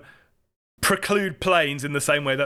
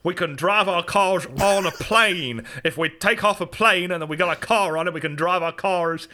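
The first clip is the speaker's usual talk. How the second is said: The Rock. Retold or imitated. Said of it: "The Rock's like".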